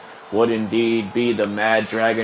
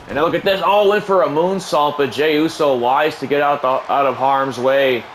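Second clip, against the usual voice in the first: excited call. Acted. Calling a moonsault live.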